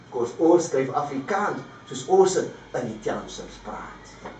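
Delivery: reads his street poem with a lilting, recited rhythm; poem recitation. Acted. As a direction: recite it as performance poetry.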